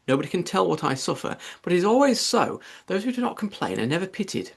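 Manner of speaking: a mild, hammed-up nagging mother; scolding tirade. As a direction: scold the undutiful daughter, rising to peaks. Mrs Bennet's long scolding tirade.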